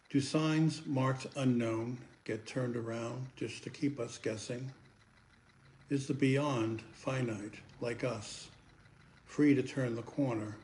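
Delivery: questioning verse, firm openings and settling endings; poem recitation. Acted. Poet asks listeners "do you believe" in verse, measured recitation. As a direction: recite each question with deliberate pauses.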